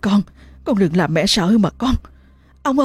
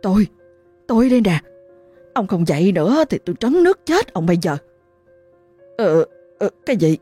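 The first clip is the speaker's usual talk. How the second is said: fast, higher, urgent rebuke; frantic scolding; 4 semitones higher, faster than usual. Acted. Wife waking her sleeping husband, fast frantic scolding. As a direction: hurry him up, angry and scared.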